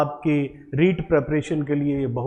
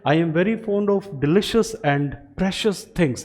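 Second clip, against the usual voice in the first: slow, careful reading of the example; 2 semitones higher, slower than usual. Shown as a demonstration. Teacher reading an example sentence, slow and deliberate. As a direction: read each word slowly for learners. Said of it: "यहाँ लिखा है".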